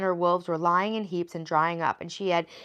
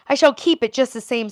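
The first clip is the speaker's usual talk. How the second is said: higher, louder, taunting witch; mocking witch; 6 semitones higher, 9 dB louder than usual. A narrator's reading. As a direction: gloat at the girl. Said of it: "laughing at her".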